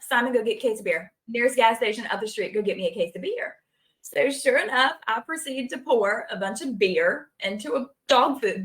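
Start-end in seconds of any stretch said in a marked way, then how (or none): 0.0-3.6 rattled-off fast instructions; fast urgent errand order; quick orders. Retold or imitated. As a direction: hurry him off for beer. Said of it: "I'm like".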